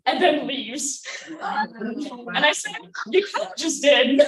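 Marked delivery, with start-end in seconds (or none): 3.1-4.2 louder retort. Retold or imitated. Punchline retort.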